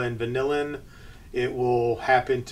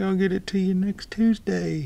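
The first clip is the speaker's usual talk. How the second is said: mournful, sad voice pitched up; 7 semitones higher than usual. Voicing a sad guy who owes money: acting a sad guy. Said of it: "the sad guy who owes money".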